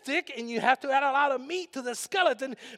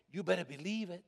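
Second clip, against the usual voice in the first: quiet; 5 semitones lower, 9 dB quieter, faster than usual. Shown as a demonstration. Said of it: "another way of saying it".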